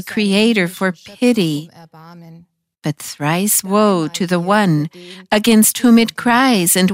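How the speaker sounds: story narration with voiced speakers; reading scripture to viewers, gospel storytelling manner. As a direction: read the gospel passage aloud like a story for listeners. Reads a gospel story aloud.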